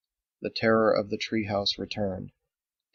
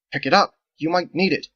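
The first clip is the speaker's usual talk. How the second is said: louder, higher scolding command; sharp order; 7 semitones higher, 7 dB louder than usual. Acted. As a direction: snap at her to obey. Andolin snaps an order.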